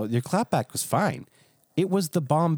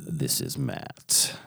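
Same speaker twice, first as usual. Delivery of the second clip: low slow whisper; 10 semitones lower, 6 dB quieter, much slower than usual. Acted. Mocking the radio intro.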